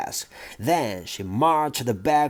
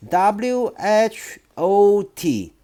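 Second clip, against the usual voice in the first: put-on slow, higher boy spelling out letters; 7 semitones higher, much slower than usual. Boy spells word for headmistress, slow higher voice.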